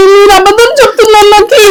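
tearful accusation, voice wobbling with sobs; crying. Acted. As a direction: cry it out at the lying husband. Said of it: "ఏడ్చొద్దే".

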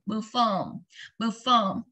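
"perform" with lips rounded on the O, "per-FORM". Shown as a demonstration. Teacher correcting pupils, rounding the O clearly. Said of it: "O chúng ta đọc cong tròn này".

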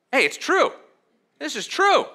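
high, bright-eyed surprise with a laugh; like stumbling on a treasure; delighted discovery. Retold or imitated. Pastor voicing a believer who finds the Bible true, delighted surprise.

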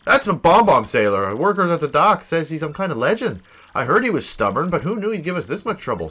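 lightly voiced chatty companion, rising emphasis; perky sidekick. Companion tells hero about the stubborn sailor, exasperated. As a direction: fill in your partner with exasperated energy.

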